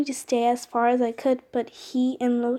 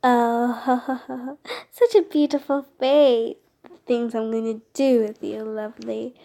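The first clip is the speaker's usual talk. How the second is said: gloating villain. Acted. Villain gloats over captive.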